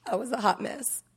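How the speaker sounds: light laugh through the words. Real, not acted. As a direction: chuckle it at yourself. Laughs at herself.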